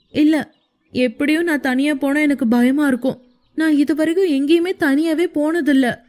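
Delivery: put-on a scared young wife whining not to go alone; whimpering. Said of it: "மின்மினி சினுங்கியபடி". (சிணுங்கலுடன் உயர்ந்த குரல்)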